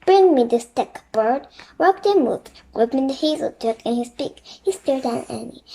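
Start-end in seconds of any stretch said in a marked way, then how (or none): 0.0-1.5 commanding. Acted. King commanding the bird.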